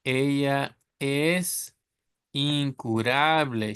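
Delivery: incurable in Spanish, slow and even; slow dictation in Spanish; Spanish reading. Shown as a demonstration. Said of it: "read it with a Spanish reading".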